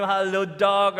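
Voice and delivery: lightly acted dog-owner greeting; singsong hello to a dog; greeting a pet. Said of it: "go up to them and say".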